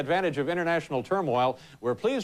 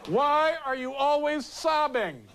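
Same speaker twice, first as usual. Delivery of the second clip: laughing mock quote; 8 semitones higher, slower than usual. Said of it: "echoing the tape quote".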